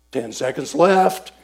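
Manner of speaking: leader's measured countdown call; announcing time. Retold or imitated.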